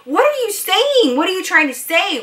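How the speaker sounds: imitating mom's high, urgent questions; bewildered mom. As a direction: plead high-pitched to understand. Mom urgently asks what daughter means.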